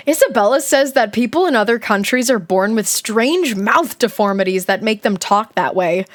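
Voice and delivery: lively first-person story reading; diary read-aloud. Acted. Streamer reading a kid's diary aloud, animated narration. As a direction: read it like a dramatic schoolgirl's diary.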